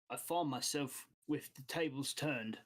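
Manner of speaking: lightly voiced boss asking a favour; accented boss making a careful request; guild boss. Game master voices guild boss.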